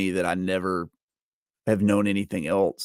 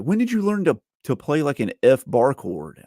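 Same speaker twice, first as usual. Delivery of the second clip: put-on raised, slowed question as a kid; high curious student; 5 semitones higher than usual. Student asks, quoted by teacher.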